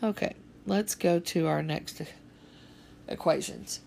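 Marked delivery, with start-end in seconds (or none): 3.1-3.8 word stretched through a yawn. Real, not acted. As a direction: say it mid-yawn, mouth wide. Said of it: "I'm yawning so bad".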